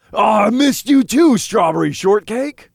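high, loud, delighted little imp; happy. A narrator's reading. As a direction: squeal it out happily. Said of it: "he said happily".

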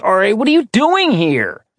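surprised friend. Acted. Braden surprised by visitor.

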